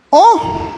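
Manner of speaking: lamenting oh. Retold or imitated. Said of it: "esta exclamación".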